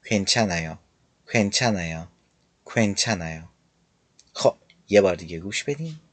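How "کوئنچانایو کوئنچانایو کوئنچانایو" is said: کوئنچانایو run together quickly, the w barely heard; quick کوئنچانایو, lips barely rounding; fast version. Shown as a demonstration. Teacher shows students the fast spoken form. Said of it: "خیلی سریع تلفظ کنید".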